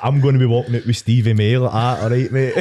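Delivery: real laughter breaking into the words; laughing through it. Real, not acted. Telling mates about the mascot mix-up, laughing. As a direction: giggle while you picture it.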